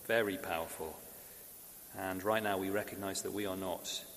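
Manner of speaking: subdued, measured public prayer. Real, not acted. Leads the congregation in prayer.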